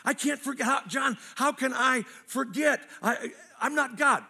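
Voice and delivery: a hint of exasperated churchgoer; whiny protest. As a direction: whine that you just can't forget. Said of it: "You're like".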